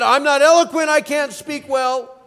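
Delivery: a hint of a pleading Moses; Moses' excuse. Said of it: "Moses said".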